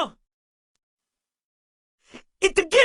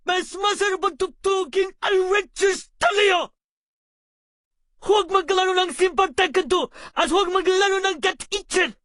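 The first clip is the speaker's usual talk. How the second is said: scolding parent. Acted. Parent scolding crying child.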